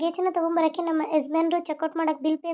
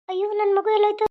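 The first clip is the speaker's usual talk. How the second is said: higher-pitched, anxious cry; panicked mother; 4 semitones higher than usual. Acted. Mother hunting for her lost child, panicked. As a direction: cry out in alarm for a missing child.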